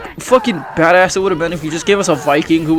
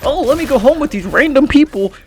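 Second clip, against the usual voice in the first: mocking high voice; 7 semitones higher than usual. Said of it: "mocking the character".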